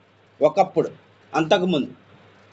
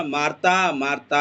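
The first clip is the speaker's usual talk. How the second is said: Jesus calling Martha; 6 semitones lower than usual. Acted. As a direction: call her name twice, low and gentle. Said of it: "ఎందుకు పిలుస్తున్నాడు చెప్పనా?".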